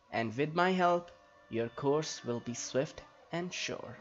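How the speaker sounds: lightly voiced, formal elf helper; in-character dialogue reading. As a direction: read it like a stately fantasy character, lilting. Reads Nembadeth's game dialogue in character.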